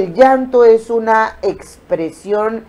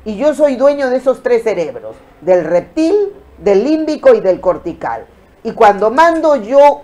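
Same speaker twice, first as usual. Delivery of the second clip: a firm, commanding voice taking control; a touch of stern authority; firm in charge; 3 semitones higher, 4 dB louder than usual. Retold or imitated. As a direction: tell your own brain who's boss. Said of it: "Pero si usted le dice".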